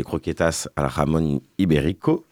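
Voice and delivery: understated attempt at Spanish pronunciation on "jamón ibérico"; tentative Spanish accent. Shown as a demonstration. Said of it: "Désolé pour mon accent espagnol".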